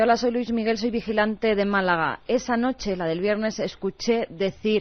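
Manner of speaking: normal talking voice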